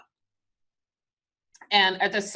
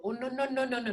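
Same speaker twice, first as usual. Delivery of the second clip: softer refusal; 4 semitones higher, 6 dB quieter, faster than usual. Acted. Soft acted refusal.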